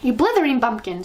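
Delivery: loud raging witch screech. Acted. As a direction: screech the insult in rage. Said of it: "screeched the Grand High Witch".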